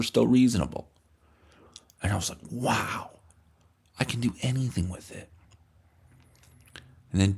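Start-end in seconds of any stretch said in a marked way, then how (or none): 2.0-2.4 whisper. Real, not acted. Whispered lead-in to quote. 2.5-5.3 put-on awed kid. Kid marveling at two dollars.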